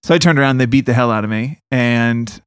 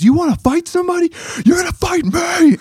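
very high, strained mock shout; imitated screaming dad. Dad gets up in the bullies' faces, mock furious shouting. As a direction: imitate dad squaring up for a fight. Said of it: "just screamed at them".

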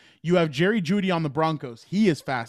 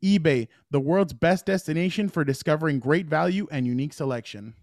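upbeat sponsor read. Acted. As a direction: read it like a radio ad. Reads eBay sponsor ad.

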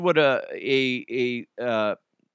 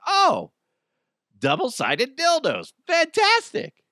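high mock delight; sarcastic excitement; 3 dB louder than usual. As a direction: squeal it with fake joy. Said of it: "you're like".

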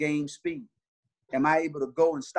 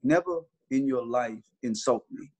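calm; 4 semitones lower, slower than usual. Retold or imitated. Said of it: "And I was very calm".

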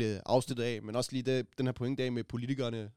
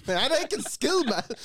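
higher and louder mocking sneer; 12 semitones higher, 6 dB louder than usual. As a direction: scoff like a cocky teen. Quoting mocking classmates.

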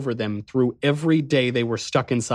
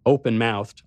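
ordinary delivery, nothing marked

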